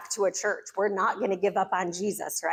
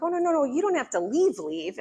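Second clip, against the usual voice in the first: flustered backpedal; 5 semitones higher than usual. Retold or imitated. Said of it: "they're like".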